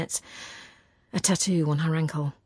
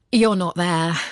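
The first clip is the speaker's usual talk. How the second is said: elaborate calmness; 4 dB louder, slower than usual. Acted. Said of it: "I say with elaborate calmness".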